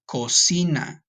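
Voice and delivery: measured teacher's "Cocina", stress on the middle syllable; model pronunciation. Shown as a demonstration. Teacher has class repeat the kitchen word, model pronunciation. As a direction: say "Cocina" clearly for students to repeat. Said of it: "Repeat after me".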